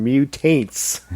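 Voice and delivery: "Mutates" said as myoo-TAINTS; punning mispronunciation. Shown as a demonstration. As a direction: stress the end of "Mutates", rhyming with taints. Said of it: "I kept thinking".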